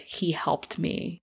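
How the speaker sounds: faint, fragile murmur; barely getting the words out; weak. Retold or imitated. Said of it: "Amanda weakly says".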